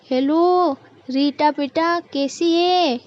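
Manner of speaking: drawn-out, doting hello to a daughter; sweet motherly lilt; affectionate greeting. Acted. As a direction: greet your child on the phone.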